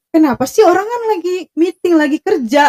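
a retold burst of temper; mock angry outburst. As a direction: imitate him snapping back in irritation. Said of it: "dia langsung yang meledak-ledak gitu".

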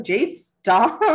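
comic exasperation; retold exasperated plea. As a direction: imitate a partner begging for a break. Retold husband pleading with her.

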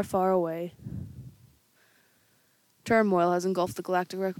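solemn announcer; epic intro narration. Acted. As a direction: read like an opening crawl. Star Wars crawl.

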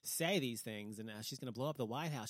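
loud, scandalised gasp of mock horror; mock outrage. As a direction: mimic pearl-clutching critics, outraged. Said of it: "people were just like".

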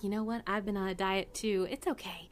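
softening, confiding tone; winking reassurance. Acted. Waitress excusing a diner's extra pie, winking reassurance. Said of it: "kinda gives you a wink and is like".

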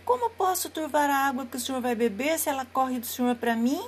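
small trembling lamb, pleading; innocent lamb. Acted. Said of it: "trêmulo de medo, respondeu com inocência". (cordeirinho inocente e tímido)

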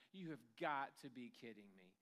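low, incredulous sarcastic retort; dripping sarcasm. Acted. Fisherman to the stranger on shore, sarcastic. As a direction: imitate someone fed up with advice. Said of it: "all the dripping sarcasm".

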